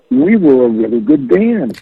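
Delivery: imitated excitement, drawn out slowly; slow, marvelling excitement in a retold quote; excited. Bandmate realizing on the phone how good they were, excited. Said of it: "I couldn't believe the excitement in his voice".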